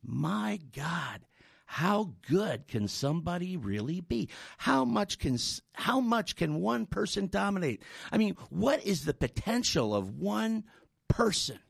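awed musing, spaced out by pauses; lightly acted inner amazement; silent wondering. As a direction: wonder to yourself at someone's greatness. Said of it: "I asked myself silently".

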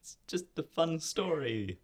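breathy unvoiced whisper. Real, not acted. Host replying to Sophie in a whisper. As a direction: say it under the breath.

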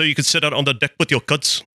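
exaggerated Kiwi vowels, short i as uh; New Zealand accent. Shown as a demonstration. Speaker showing friends how Kiwi vowels shift, in a New Zealand accent. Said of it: "in New Zealand, I's go to you".

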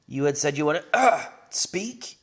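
put-on high, bright-eyed girl rushing out; a young girl already halfway out the door; excited teen heroine, fast and high; eager young girl. Foria's voice again.

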